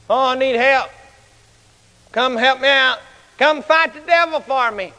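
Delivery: half-hearted imitation of calling for help; a mild mock plea; mock holler for help. Timid believers begging the preacher for rescue, mildly hollered. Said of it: "they holler for somebody".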